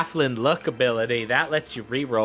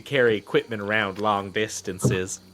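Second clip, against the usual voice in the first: folksy halfling voice. Acted. Halfling NPC speaking.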